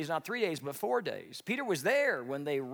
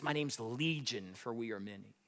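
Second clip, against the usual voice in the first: demon voice; 5 semitones lower, 6 dB quieter than usual. Acted. Demon-possessed man answers Jesus.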